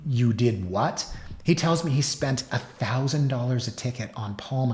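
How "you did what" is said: slow, drawn-out mock disbelief; retold disbelief. Intern reacting to colleague's ticket confession, mock disbelief. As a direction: stretch it into an incredulous rising question.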